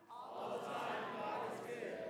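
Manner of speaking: breathy whispered reply. Retold or imitated. Preacher mimicking a faint congregation reply in a whisper. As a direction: barely breathe the answer out.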